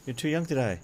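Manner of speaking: high, pleading melodrama; mock dismay. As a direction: wail it lightly as if a friend were dying. Character cries over fallen Nick.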